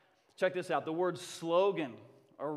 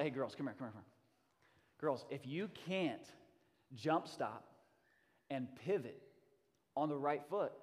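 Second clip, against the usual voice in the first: low, hushed huddle voice; confidential coach; 3 semitones lower, 7 dB quieter than usual. Retold or imitated. Coach calling fourth grade girls in close, hushed and grave. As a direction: draw them in quietly, with weighty pauses.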